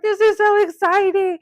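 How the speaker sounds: loud, high excited squeal; retold cheering. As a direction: imitate a sister cheering you on. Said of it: "like, cheering".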